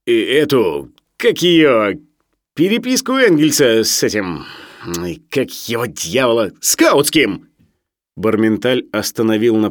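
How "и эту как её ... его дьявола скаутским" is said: groping irritably for the forgotten name; uneven, searching delivery with a louder burst; Sharikov, boorish and fumbling. Acted. Sharikov struggles to name his reading to the professor, boorishly fumbling.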